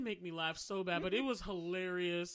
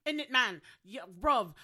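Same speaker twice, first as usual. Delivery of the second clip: mock London road-man accent, louder; imitating a London road-man; London slang; 3 semitones higher, 9 dB louder than usual. Friend mimics London slang for laughs. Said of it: "the people that talk like".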